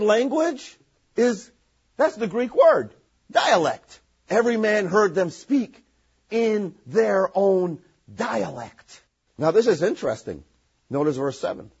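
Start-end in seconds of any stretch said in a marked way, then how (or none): 4.3-8.9 scripture reading. Acted. Reads scripture aloud.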